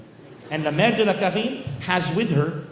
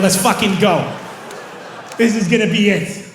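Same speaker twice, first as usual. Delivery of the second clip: excited; 3 semitones higher, 4 dB louder than usual. Retold or imitated. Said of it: "We're like".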